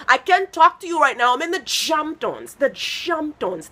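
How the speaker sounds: loud, high mock posh phone voice. Comic mocking a guest on the phone, mock posh brag. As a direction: put on a fancy Hamptons brag. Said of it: "he was like".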